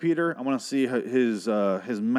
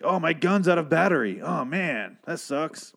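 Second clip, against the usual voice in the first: mock Old West cowboy; 6 semitones higher, slower than usual. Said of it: "it's just like".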